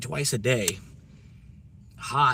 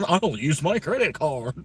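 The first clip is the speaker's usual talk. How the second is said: slow, high mock British accent; same line again, posh British voice; mock British accent, louder; 5 semitones higher, 4 dB louder, slower than usual. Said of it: "British accent".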